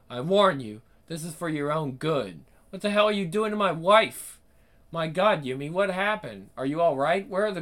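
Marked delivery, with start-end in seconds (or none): 2.7-4.4 outraged shout. Acted. Husband finds wife restrained.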